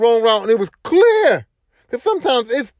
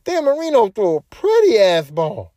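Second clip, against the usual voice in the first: amazed fan; 5 semitones higher than usual. Retold or imitated. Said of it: "you're like".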